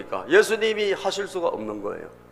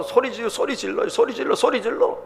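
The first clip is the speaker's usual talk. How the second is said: mimed crying out; 7 semitones higher, 5 dB quieter than usual. Retold or imitated. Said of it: "간절하게 예수님에게 막 쫓아와서".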